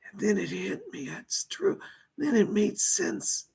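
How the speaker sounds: dead mobster speaking through a medium; seance medium. Pretend. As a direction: channel a lost spirit, pleading.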